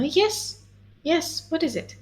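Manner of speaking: normal talking voice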